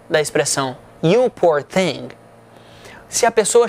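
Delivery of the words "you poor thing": slow and low, genuinely sorry for her; sincere sympathy. Shown as a demonstration. Teacher models comforting an exhausted friend, sincere and kind. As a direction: say it kindly, with no irony at all. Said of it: "mas no sentido não irônico".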